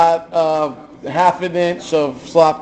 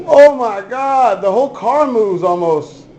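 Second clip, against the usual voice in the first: drawn-out amazed Oh my God; surprised; 3 semitones higher, slower than usual. Real, not acted. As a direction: genuine shocked exclamation. Sees whole car move.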